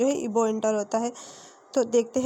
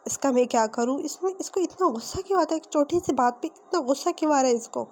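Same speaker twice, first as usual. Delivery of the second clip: mildly acted exasperation, rising higher; exasperated; 3 semitones higher than usual. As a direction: wonder helplessly at someone's temper, pitch lifting. Head in hands, despairing at temper.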